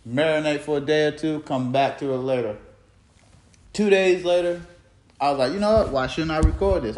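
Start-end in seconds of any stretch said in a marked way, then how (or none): 5.5-7.0 excited. Retold or imitated. Excited self-quote.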